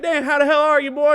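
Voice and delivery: a mock Southern hick greeting, high and loud; hick talk. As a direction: ham up a backwoods old buddy. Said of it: "just hick talking back and forth".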